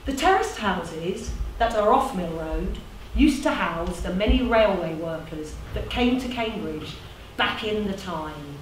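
measured recital with deliberate pauses; lightly performed storytelling, phrases falling away; monologue narration. Acted. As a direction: narrate it like a spoken tribute.

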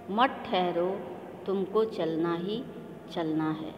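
rhythmic, measured poem reading with lifted repeats; poem recitation. Shown as a demonstration. Teacher reciting a Hindi poem for her pupils, rhythmic and measured. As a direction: recite it like a model reading for the class. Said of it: "जिस प्रकार से मैं कविता का वाचन कर रही हूँ".

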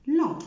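"لون" high, loud, nasal; nasal vowel. Shown as a demonstration. Teacher modelling the word long. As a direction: let it ring in the nose. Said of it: "الإكزامبل اللي بعد كده لون".

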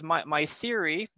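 "theory" drawn out slowly and leaned on; stress on theory. Shown as a demonstration. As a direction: weigh the word "theory" slowly. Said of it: "I'll emphasize the word theory".

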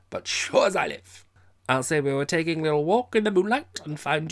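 loud, high tipsy bargaining; drunken threat. A narrator's reading. Drunk Captain threatening Miss Mapp, loud and high. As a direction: lean in and bully her cheerfully.

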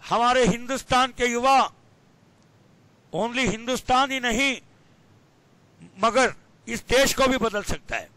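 lightly mocked politician's speech, in broken phrases; Rahul Gandhi. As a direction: hold long pauses between phrases, mimicking a halting orator. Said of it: "like that Rahul Gandhi". (रुक-रुक कर भाषण की हल्की नकल)

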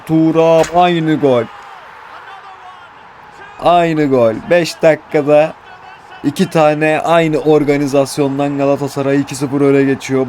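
goal call. Real, not acted. Goal call in live commentary.

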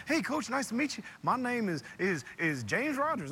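a hint of a young player introducing himself to the coach; James Rogers impression. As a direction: mimic a kid greeting the coach with slangy swagger. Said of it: "I love the impersonation".

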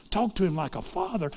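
incredulous question rising at the end; shocked echo. Retold or imitated. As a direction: repeat it back as if you can't believe it. Noblewoman echoes the words, shocked.

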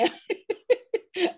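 a short high laugh, trailing off; real laugh. Real, not acted. Remembering being mocked in Algeria, a short high laugh.

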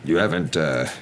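halting, tentative question with pauses; nervous husband. Acted. Husband asking wife about her sister, nervous and halting. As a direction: broach it carefully, hesitating. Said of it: "He cleared his throat nervously".

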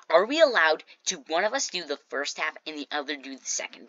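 mildly haughty, imitated question; superior. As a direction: ask as if already sure of winning. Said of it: "I'm better than you kind of voice".

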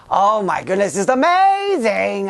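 put-on high, slow, amazed nasal-throated young hero; a light take on Hiccup gushing, drawn out. Showing fans how Hiccup sounds, light high amazed voice. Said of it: "Hiccup kind of talks like this".

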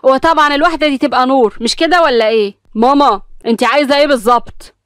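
irritated. Acted. Mother confronting her son about Nour, irritated. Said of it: "ابتسام وقفت متعصبة وقالت".

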